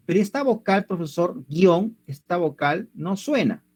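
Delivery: a hint of a puzzled pupil's voice; lightly voiced student. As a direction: lightly play a student questioning the teacher. Teacher voices a student's objection.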